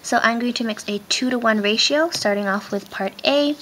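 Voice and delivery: talking through a face mask; muffled behind a mask. Real, not acted. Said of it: "I apologize in advance if my voice is muffled. I'm wearing my mask".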